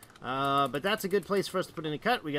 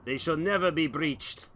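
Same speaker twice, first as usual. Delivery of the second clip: sneering panto villain; 5 dB louder, slower than usual. Pretend. Gloating villain speech.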